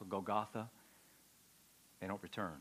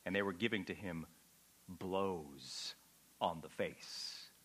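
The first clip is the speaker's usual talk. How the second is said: hushed reading; 7 semitones lower, 8 dB quieter, slower than usual. Acted. Reading the text, dropping low.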